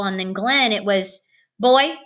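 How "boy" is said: put-on sharp loud call of "Boy"; bark. A narrator's reading. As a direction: snap it out like a stern superintendent. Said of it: "Superintendent Whipple barked".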